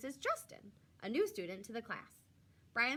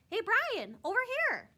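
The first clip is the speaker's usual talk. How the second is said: high, loud call across the room; shout; 13 semitones higher, 8 dB louder than usual. Acted. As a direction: wave him over with your voice. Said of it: "he hears someone shout".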